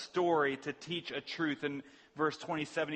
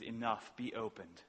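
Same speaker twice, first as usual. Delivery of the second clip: softer, sorrowful sigh of a command; 2 semitones lower, 5 dB quieter than usual. Retold or imitated. Jesus sighs to heaven over the broken man, softer and sorrowful. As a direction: let it out on a tired, grieving breath. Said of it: "he sighs and he says".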